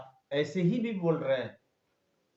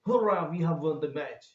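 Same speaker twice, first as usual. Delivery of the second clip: slow, louder cheer; loud, slow hurrah; joyful exclamation; 6 dB louder, much slower than usual. Shown as a demonstration. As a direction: shout the win with joy. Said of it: "उसको exclamatory sentence कहते हैं".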